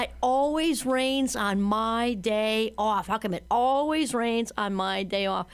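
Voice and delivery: slow, drawn-out gloomy complaint; a hint of pessimist moaning; pessimist whine. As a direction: whine about the rain. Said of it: "she's imitating the pessimist".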